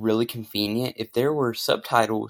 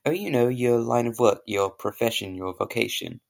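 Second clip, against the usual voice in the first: put-on posh British accent; 4 dB louder than usual. A posh Englishman greets an American, in a British accent. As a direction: play the proper English gent. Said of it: "I have a very good British accent".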